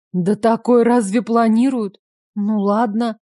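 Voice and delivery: ordinary delivery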